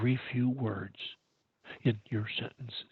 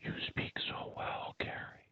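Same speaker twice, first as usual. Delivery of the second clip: admiring listener; 13 dB quieter than usual. Acted. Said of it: "people will soon tell you".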